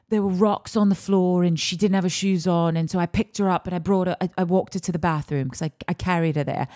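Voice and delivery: loosely faked British accent, making excuses; imitated British accent. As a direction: retell his excuse as a British man. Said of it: "and he's British".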